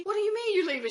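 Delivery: shrill-pitched, loud panicked plea; panicked high cry. Retold or imitated. Frightened friend on the phone begging her not to go, panicked high cry.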